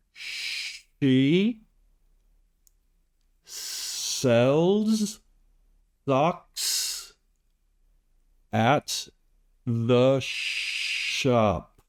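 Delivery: each word read slowly apart, with "shop" ending in a strong, overpronounced P; slow teaching demo. Shown as a demonstration. English tutor reading a practice sentence to learners, every word separated and the P of "shop" exaggerated. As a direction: spell out "socks" and "shop" word by word, popping the final P of "shop". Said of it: "I really overpronounced the P".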